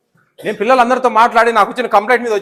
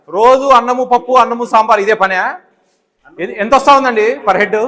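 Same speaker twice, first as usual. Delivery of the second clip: indignant scolding; 3 semitones higher, 5 dB louder than usual. Real, not acted. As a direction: hammer each item home in disbelief. Official scolds warden over menu.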